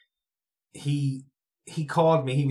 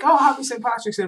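imitating the dudes; 9 semitones higher, 5 dB louder than usual. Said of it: "And they're like".

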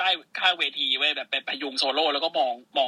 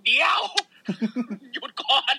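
mock alarmed stop; 9 semitones higher than usual. Nox telling partner to stop.

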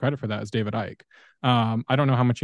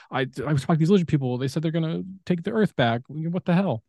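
higher, mildly alarmed retelling; freaked out; 5 semitones higher than usual. Retold or imitated. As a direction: act out a mild mock panic. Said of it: "he's, like, freaked out".

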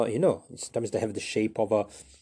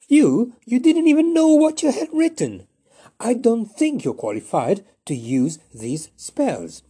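very high, loud, strained scornful voice; scornful rival; 12 semitones higher, 8 dB louder than usual. Acted. Flapperjack scorning his rival's claim, high and loud. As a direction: sneer down at him from a great height. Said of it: "Flapperjack, was having none of it".

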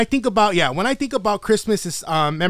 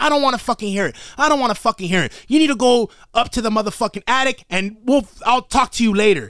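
higher-pitched, fed-up mom scolding; retold yelling mom; 5 semitones higher than usual. Mom sending her kid to the attic, scolding. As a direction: imitate a mom laying down the law. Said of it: "yelling at me".

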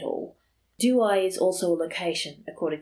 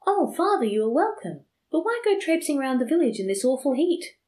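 woman calling down to the priest from upstairs; 8 semitones higher than usual. A narrator's reading. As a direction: call down to him from upstairs. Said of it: "she called down to him".

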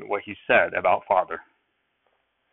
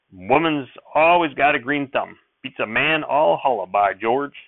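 twangy sheriff voice, higher and louder; hearty country lawman bluster; folksy shout; 4 semitones higher, 4 dB louder than usual. Acted. Sheriff praises Mother's green thumb with a hearty shout. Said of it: "he shouted".

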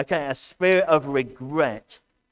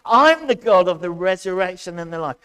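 shouting; 3 semitones higher, 6 dB louder than usual. Acted. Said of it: "am I shouting a lot".

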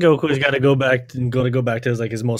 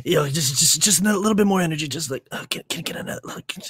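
crack addict voice; 5 semitones higher than usual. Retold or imitated. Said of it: "Goku sounds like a crack addict".

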